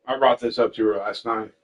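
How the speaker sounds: talking while chewing; words around a bite of spaghetti; mouth full. Real, not acted. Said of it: "I'm eating spaghetti".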